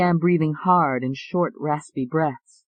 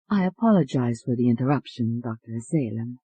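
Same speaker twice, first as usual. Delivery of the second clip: put-on soft Italian accent; 3 semitones lower than usual. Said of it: "The soft voice said".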